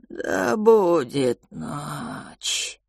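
slow hissing creature voice; whistled slow reply. Acted. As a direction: whistle the words out slowly. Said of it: "просвистел". (просвистел медленно)

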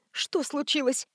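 soft, hushed weak question; whispered. A narrator's reading. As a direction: barely breathe it out. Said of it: "прошептала Рязанцева".

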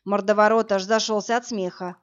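plain reading voice

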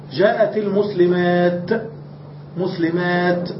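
"مسلمات" drawn out and stopped on an unvowelled t; pausal t ending. Shown as a demonstration. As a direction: slowly end "مسلمات" on a clear t. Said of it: "وقفنا عليها بالتاء".

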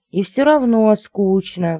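high, drawn-out whiny squeal. A narrator's reading. Bored lady to her suitor, squealing. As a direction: squeal it, stretching the words. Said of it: "взвизгнула дорогая".

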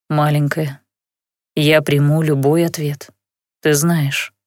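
low, ingratiating, strained calm; forced calm. A narrator's reading. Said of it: "вкрадчиво, с видимым трудом сохраняя спокойствие в голосе".

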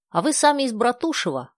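high, glad question; light up with the question; delighted. A narrator's reading. Dasha, pleased, asks the old woman about her hometown. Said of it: "обрадовалась Даша".

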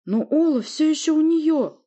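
very high, loud, slow cry; grieving mother roaring about her son; roaring grief. Acted. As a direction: wail out the loss. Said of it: "взревела Воля".

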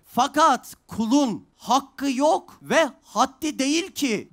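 very slow, weighty recitation of the passage; a teacher reading the holy text to students, slow and solemn. Acted. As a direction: read it out word by word like scripture.

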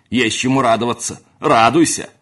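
loud bitter yell; furious shout. A narrator's reading. Housekeeper yelling at the servant, loud and furious. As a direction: hurl it at him loudly.

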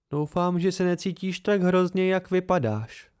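put-on a mild, caring young woman's voice; gently. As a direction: say it mildly, with care. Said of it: "řekla mírně".

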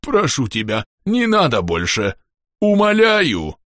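pleading creature, climbing high at the end; slightly distorted gurgle. A narrator's reading. Hurt underwater creature begs the girl to stop, distorted pleading. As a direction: beg in an odd underwater voice. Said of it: "слова исконно подводного жителя звучали немного искажённо".

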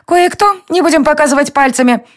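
a mischievous fairy telling on the lovers; tiny fairy. A narrator's reading. Fairy's lines. (озорная фея ябедничает, выше)

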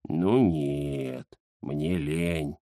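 низко и тихо, лениво; отмахнуться от просьбы; ленивый кот Захар. Acted. (Захар лениво отказывает Индире)

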